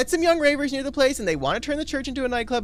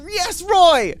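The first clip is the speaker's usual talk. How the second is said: high, loud whoop of approval; excited cheer; 9 semitones higher, 9 dB louder than usual. Acted. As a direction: shout it high in delight. Cheering Roy for helping.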